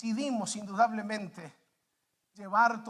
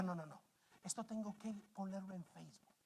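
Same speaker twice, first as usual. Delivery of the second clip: much softer, lower aside to oneself; hushed onlooker aside; 5 semitones lower, 18 dB quieter, faster than usual. Acted. Onlooker recording the cart puller, hushed aside. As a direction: mutter it under your breath while filming. Onlooker muttering while filming.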